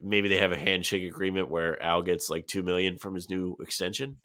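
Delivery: stuffy congested voice; blocked nose. Real, not acted. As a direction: speak through a blocked nose. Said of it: "Sorry, I'm a little congested".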